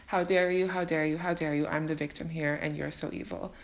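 hammed-up wounded tirade; dramatic show. Jacob berating Laban for distrusting him, mock-dramatic outrage. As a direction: play the victim, theatrically aggrieved. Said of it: "put on his own dramatic show".

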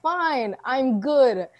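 normal talking voice

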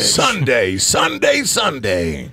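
booming pitch swoop on each Sunday; monster truck ad. Shown as a demonstration. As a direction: hype announcer hitting Sunday three times.

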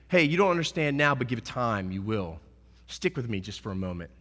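soft, low, reassuring as Jesus; tender Jesus. Acted. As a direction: gently comfort the disciples. Jesus voiced gently to disciples.

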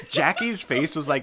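laughing. Real, not acted. Host laughing about the DM's reaction. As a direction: giggle through it.

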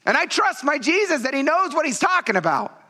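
high, impassioned preaching; preaching at full force. Acted. Pastor urging congregation about Jesus' suffering, impassioned preaching. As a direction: pour it out to the church.

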